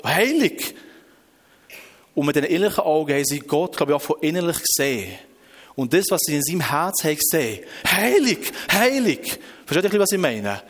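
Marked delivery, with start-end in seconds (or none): 0.0-0.7 high exclamation of worship; awed call. Retold or imitated. Beings seeing God's radiance, high awed call. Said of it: "Sie haben nur Heilige verrufen". 7.9-9.4 high, awestruck exclamations; full of wonder. Retold or imitated. Beings who have seen into God's heart, awestruck call. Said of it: "einfach voller Staunen".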